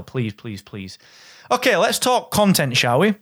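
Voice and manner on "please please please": softer, lower, fading please; pleading please. Real, not acted. Host begging listeners to grab the trial, fading to near silence. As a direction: beg them gently, trailing away.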